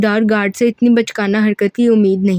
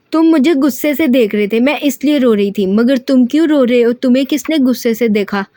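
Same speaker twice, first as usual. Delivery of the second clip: pouting; 2 semitones higher than usual. Acted. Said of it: "हरम ने मुंह बनाते जवाब दिया".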